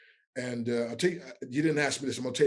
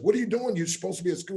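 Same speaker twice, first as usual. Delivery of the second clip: scolding mother; 6 semitones higher, faster than usual. Retold or imitated. Retold mother woken, scolding son.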